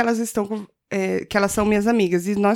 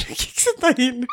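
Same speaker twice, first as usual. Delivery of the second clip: laughing; 12 semitones higher than usual. Real, not acted.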